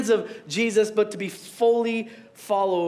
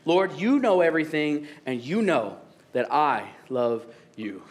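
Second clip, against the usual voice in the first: hurt; 6 semitones lower than usual. Acted. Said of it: "So Peter was hurt".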